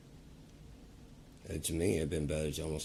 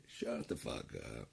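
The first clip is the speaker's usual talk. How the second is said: low, slow mutter; 7 semitones lower, 7 dB quieter, slower than usual. Pretend. Low variant.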